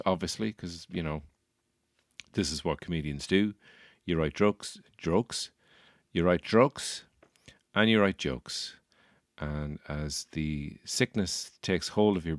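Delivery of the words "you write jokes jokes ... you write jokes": write jokes, jokes mispronounced as droaks and shjokes; slurring the word jokes into droaks; garbled jokes. Shown as a demonstration. Comic slurring the word jokes. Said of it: "you can't really pronounce either of those words correctly".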